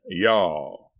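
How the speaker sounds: "Y'all" drawn out in Southern style. Shown as a demonstration. Husband coaching wife in Southern talk, drawled. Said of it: "and say".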